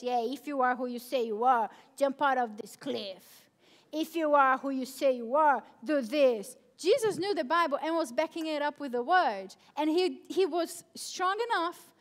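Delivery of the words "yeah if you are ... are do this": tempting devil. Retold or imitated. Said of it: "when the devil said".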